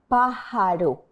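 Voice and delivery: pájaro with a single soft tapped R in the middle; soft Spanish R. Shown as a demonstration. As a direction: tap the R in pájaro once, softly, no roll. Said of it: "The R sound is softer than in the word rojo".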